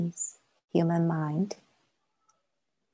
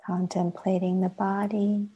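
measured meditation guidance with long silences; guided meditation. Acted. Teacher leading a class into sitting practice, guided meditation. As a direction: guide them gently inward, pausing long between phrases.

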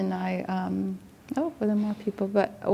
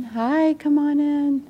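higher-pitched greeting to newcomers; welcoming call; 8 semitones higher, 4 dB louder, slower than usual. Real, not acted. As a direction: call them in, lifting the pitch. Greeting latecomers at the door.

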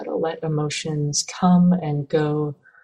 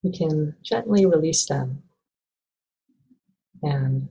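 calm, even meditation guidance with long pauses; measured, unhurried meditation teacher; guided meditation. Acted. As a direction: gently guide listeners into stillness, leaving space between phrases.

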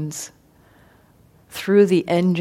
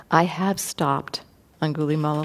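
calm reply; 5 dB quieter than usual. Retold or imitated. Buddha calmly answers bandit.

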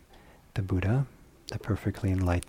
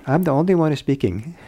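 laughing; 7 semitones higher, 7 dB louder than usual. Real, not acted. Laughs at chanting mix-up.

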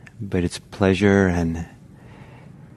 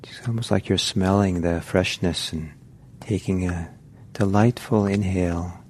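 unhurried guiding voice with long pauses; guided meditation. Real, not acted. Teacher settling meditators into posture and breath, unhurried guided meditation. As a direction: ease them gently into the practice, leaving space.

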